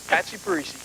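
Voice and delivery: high put-on mobster voice; playful nod to The Sopranos; Sopranos character voice. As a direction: toss off a quick Patsy Parisi impression.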